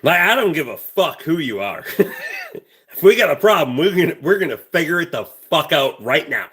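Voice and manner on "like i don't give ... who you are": laughing defiance. Real, not acted. Laughing while talking tough.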